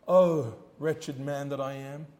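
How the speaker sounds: slow, soft sorrowful lament; quiet mourning. Acted. Sinner mourning his sin, slow soft lament. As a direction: sigh it out in sorrow. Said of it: "will indicate the mourning".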